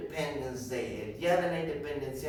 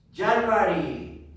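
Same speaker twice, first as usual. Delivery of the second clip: loud, slow and raised in pitch; stretched, emphatic model word; teacher's drill call; 4 semitones higher, 6 dB louder, slower than usual. Shown as a demonstration. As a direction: call it out for the class to repeat. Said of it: "I am going to say".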